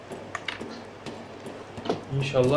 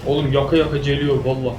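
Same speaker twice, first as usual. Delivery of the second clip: being chased; 5 dB louder than usual. Real, not acted. Zombies chasing in game.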